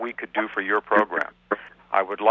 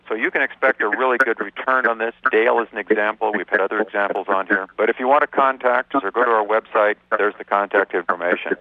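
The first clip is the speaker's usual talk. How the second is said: echoing voice. Real, not acted. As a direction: voice echoing on the phone line. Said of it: "I apologize for the echoing".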